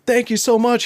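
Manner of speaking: high, mock-distant thanks; retold yell. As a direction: imitate calling thanks across water. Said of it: "he's like, he's yelling".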